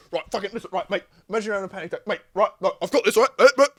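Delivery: fast, pushy coked-up rambling; coked-up guy. Retold or imitated. Mimicking the guy hyping himself up at the friend, fast and pushy. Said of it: "he's, like, grabbing you".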